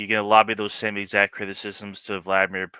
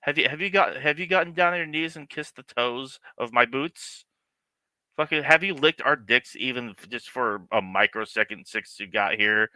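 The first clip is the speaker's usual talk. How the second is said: whiny mock official shouting over the clip; mock Vance; 4 semitones higher than usual. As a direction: ham up a pushy official demanding grovelling. Streamer mocks Vance's demands.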